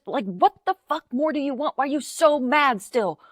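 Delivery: fed-up ranting at angry voters; exasperated rant. Real, not acted. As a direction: vent at them, pitch up and pushing. Ranting at the right.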